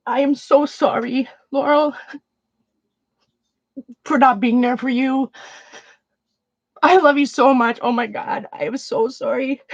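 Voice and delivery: real, halting apology close to sobbing; tearful apology. Real, not acted. Streamer apologising to friends they withdrew from, tearful. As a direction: plead for forgiveness through tears, pausing to recover.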